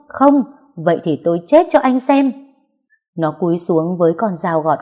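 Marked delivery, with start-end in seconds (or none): 0.1-2.3 high, loud threat; desperate shout. Acted. Heroine threatening to kill herself before her ex, desperate shout. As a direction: scream the threat at him.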